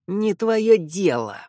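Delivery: slow, angry vampire hiss; hissing feral vampire. Acted. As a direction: hiss it out with menace. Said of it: "злобно прошипел вампир".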